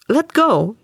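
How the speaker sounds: snapped. Acted. Spirit posing as Sasha snapping at Wilde, sharp. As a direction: bite the words off fast. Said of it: "she snapped".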